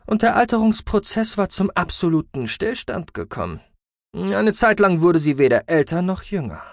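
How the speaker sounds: high, emphatic creaky voice; creaky, boastful scientist. A narrator's reading. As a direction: reveal your finding triumphantly as the researcher.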